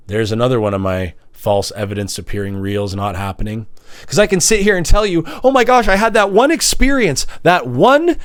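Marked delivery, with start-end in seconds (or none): 5.4-8.2 milk the one experience, slower each time; slowing, dwelling. Pretend. Mocking himself as he slows on one memory.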